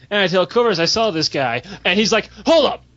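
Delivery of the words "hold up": higher-pitched "stop right there" call; urgent interjection. Acted. Guildmate stopping the storyteller mid-report, urgent interjection. Acted quote, friend reacts to sighting.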